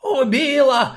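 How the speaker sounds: high, loud panicked shriek. Acted. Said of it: "кто-то истошно завизжал".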